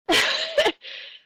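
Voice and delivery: very high, loud sob; high burst of emotion; tearful outburst. Real, not acted. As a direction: let out a sudden high choked sob. Overcome after emotional long rant.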